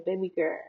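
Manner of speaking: put-on quick "baby girl" without the L; "baby girl" loosely, final L dropped; own slurred pronunciation. Shown as a demonstration. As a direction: say "girl" as a short "gurr". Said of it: "I just gotta say it like Shawty Bay".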